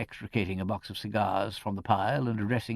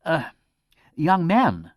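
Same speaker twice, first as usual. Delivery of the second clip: rebuking; 7 semitones higher, 6 dB louder, slower than usual. A narrator's reading. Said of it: "said Mister Goodacre rebukingly".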